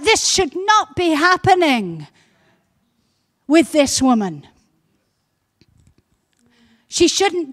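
indignant. Retold or imitated. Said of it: "I think he was indignant".

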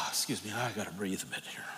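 real emotion, breathy and near whispered; a sigh, then a whisper to steady himself; choked up. Real, not acted. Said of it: "I get emotional on this one".

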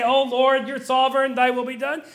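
glib mock prayer, lightly rising at the end; quick to say. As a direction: toss off a ready-made prayer. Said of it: "He wasn't quick to say".

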